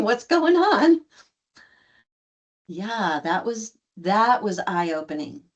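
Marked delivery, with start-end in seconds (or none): 0.0-1.0 high, drawn-out retold question; slow high-voiced query. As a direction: ask slowly, pitched way up. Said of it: "I'm asking".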